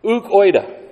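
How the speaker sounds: "uk oida" said as ook OY-da, stress on uk; careful Greek "uk oida", falling. Shown as a demonstration. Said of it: "they are the words".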